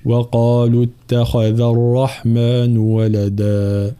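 slow melodic tajweed chant; Quran recitation. Acted. Teacher recites. (تلاوة مجودة)

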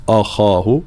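أخاه with a thick, backed opening a; wrong heavy hamza. Shown as a demonstration. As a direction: show the mistake: heavy hamza at the start of أخاه. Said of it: "لابد من ترقيق الهمزة".

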